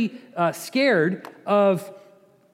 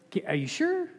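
pleading Balaam; 10 semitones higher, 6 dB quieter than usual. Acted.

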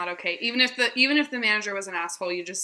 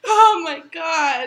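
laughing; 4 semitones higher, 4 dB louder, much slower than usual. Real, not acted. Recovering from laughter.

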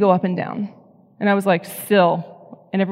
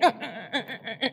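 imitating baby grunts; 3 semitones higher, 8 dB quieter than usual. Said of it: "They grunt".

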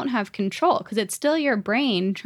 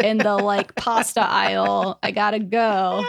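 louder mock-impatient protest; exasperated teen; 4 dB louder than usual. Daughter stuck in the pasta aisle with mom, exasperated. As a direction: push to get away from the small talk.

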